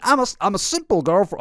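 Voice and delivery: badly faked American accent; attempted American accent. Commentator reading influencer's old post, failed accent imitation. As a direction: have a shaky go at her American accent. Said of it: "should I do the accent?".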